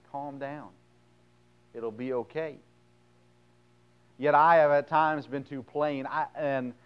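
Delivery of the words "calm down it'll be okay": softly soothing, with a pause between phrases; understated comforting voice; calm reassurance. Acted. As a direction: settle them down quietly. God soothing an anxious believer.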